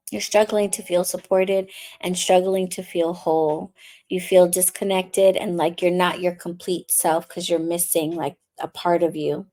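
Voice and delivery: calm intuitive reading voice; tarot reading. Acted. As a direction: speak gently to the viewer as a reader. Tarot reading for water signs.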